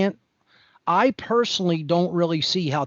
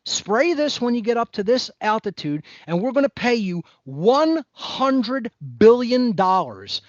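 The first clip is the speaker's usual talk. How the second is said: mock recruiter pitch; 4 semitones higher than usual. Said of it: "If you told me".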